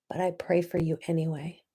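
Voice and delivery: soft unvoiced whisper; whispered blessing. Real, not acted. Blessing viewers who left, in a whisper.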